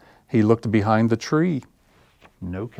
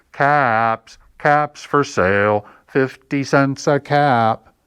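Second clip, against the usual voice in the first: slow, louder street-vendor call; peddler calling out; 4 semitones higher, 4 dB louder, slower than usual. Acted. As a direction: sing out your wares to the street. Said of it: "walked down the street calling".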